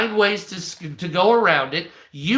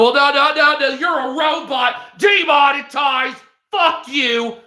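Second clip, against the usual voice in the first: higher, loud shout; mock angry platform; 6 semitones higher, 3 dB louder than usual. The AI moderator rejecting the stuttering creator, mock shout. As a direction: bark the rejection like a robot moderator.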